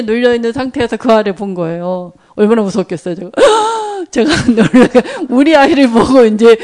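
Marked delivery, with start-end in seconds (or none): 3.4-4.1 sharp high gasp of fright; startled gasp. Retold or imitated. Mother frightened by her child in the dark, gasping. 4.1-6.6 laughing retelling. Real, not acted. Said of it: "놀란 거예요".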